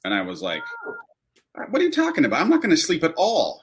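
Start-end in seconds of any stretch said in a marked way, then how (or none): 1.7-3.6 high-pitched, baffled protest; incredulous reply. Retold or imitated. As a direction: throw it back at him in sheer disbelief. Retells his disbelieving reply to manager.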